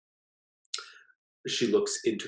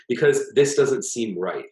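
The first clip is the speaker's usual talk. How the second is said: uneasy husband; 6 semitones higher, 6 dB louder than usual. A narrator's reading. Husband pleads at the door.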